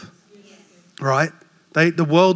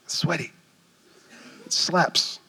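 softer, slower son explaining; patient explanation; 7 dB quieter than usual. Retold or imitated. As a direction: explain slowly to a clueless dad. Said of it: "and he said".

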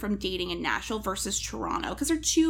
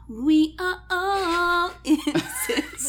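laughing; 9 semitones higher, 3 dB louder, much slower than usual. Real, not acted. Laughing while joking.

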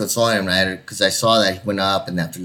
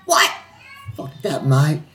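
badly faked Aussie defiance; hammy Aussie brush-off; horrible Australian accent; 6 semitones higher, slower than usual. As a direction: imitate a wasted Australian mate. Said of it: "my horrible Australian accent".

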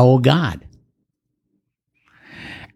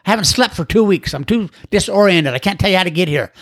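higher, rambling frantic voice; disoriented caller; 7 semitones higher than usual. Retold or imitated. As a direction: sound lost and exhausted from two weeks of drinking. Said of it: "He said".

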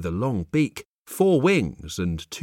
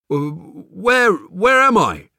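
loud, confused demand; 5 semitones higher, 6 dB louder, slower than usual. Acted. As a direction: demand an answer, bewildered. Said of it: "demanded to know".

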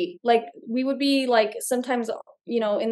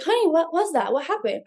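concerned mom; 6 semitones higher than usual. Retold or imitated. Mom voiced in story.

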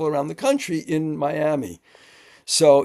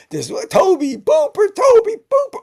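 much higher, slow teasing "Tobe Booper"; mocking the driver; 7 dB louder, slower than usual. Director mimicking the driver's mispronunciation, high and teasing. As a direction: sing the wrong name back to needle her. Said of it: "Tobe goes back to it again".

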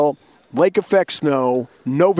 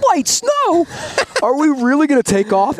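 high, loud disbelieving squeak with a laugh; mock disbelief, voice jumping way up; incredulous; 12 semitones higher, 4 dB louder than usual. Hearing the pilot announce light snow in a blizzard, incredulous high squeak.

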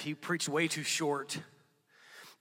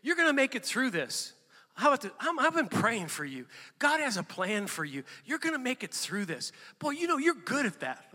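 higher, bright-hearted cheering on of a friend; encouraging words; 8 semitones higher, 5 dB louder than usual. Retold or imitated. Pastor modelling how to encourage a struggling friend, cheering voice. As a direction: speak belief into someone. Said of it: "It's actually just saying".

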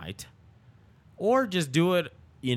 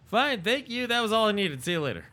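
curt mock goodbye; 9 semitones higher, faster than usual. Curt exit, high-pitched.

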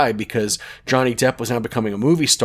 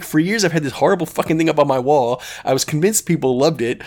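higher, lightly acted exasperation; mock pissed off; 5 semitones higher than usual. Richard finally finds out about the prank, mock angry. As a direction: retell his outrage with mild heat. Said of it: "he was really pissed".

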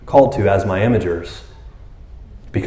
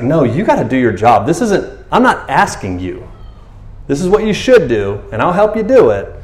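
Jesus telling disciples to do their job, mildly stern; 4 semitones higher than usual. Acted. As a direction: lay down the rule without budging. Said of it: "he's being really stern".

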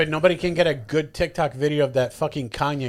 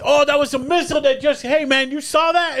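mock Australian accent; 9 semitones higher than usual. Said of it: "great Australian accent".

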